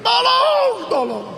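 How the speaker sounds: a single very high yell for help; high pitched shout for help, fading on the second. Retold or imitated. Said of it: "Lalu dia teriak-teriak".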